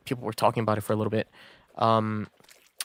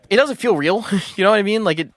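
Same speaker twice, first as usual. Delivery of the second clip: laughing disbelief; 9 semitones higher, 5 dB louder than usual. Real, not acted. Laughing about unreal memory.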